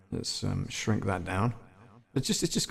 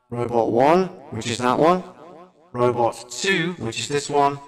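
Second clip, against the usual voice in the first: robot voice; 3 dB louder than usual. Shown as a demonstration. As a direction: voice through a robot filter. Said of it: "makes you sound like a robot".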